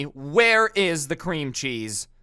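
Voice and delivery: slow, pointed entitled demand; mock Karen demanding the cream cheese; rude demanding tone. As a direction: lean on every word like she's owed an answer. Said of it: "confused by her tone".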